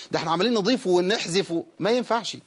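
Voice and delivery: ordinary talk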